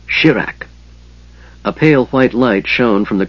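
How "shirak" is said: a mage's spell word, set apart from his speech; magic command word. A narrator's reading. The mage speaks his word of command to light his staff, incantation-like. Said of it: "his word of command".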